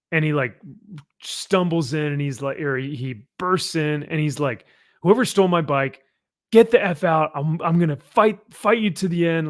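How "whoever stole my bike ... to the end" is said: raised, lightly acted angry challenge; mock threatening. Lobo bursting into the biker bar, mock threatening. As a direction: throw out a half-serious threat, voice lifted.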